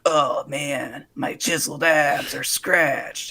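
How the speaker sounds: hammed-up lament, dragged out; whining TV ghost hunter. Parodying the scratched shirtless host, mock whining. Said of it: "he's just like".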